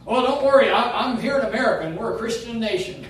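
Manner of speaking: loud, quick mock reassurance; a hint of a smug Christian-nation voice; mocking complacent American. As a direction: brush off concern like a smug patriot. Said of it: "Oh, brother".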